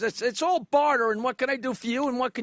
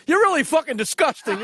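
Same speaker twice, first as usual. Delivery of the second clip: a slightly raised, louder Dangerfield jab; Rodney Dangerfield impression; 4 semitones higher, 4 dB louder than usual. Dangerfield accusing the tiny woman in the elevator, mock indignant. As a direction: blame the little woman like Rodney would. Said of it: "Dangerfield turned to the little woman and said".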